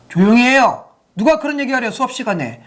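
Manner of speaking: scolding teacher. Retold or imitated. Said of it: "라고 말했다면".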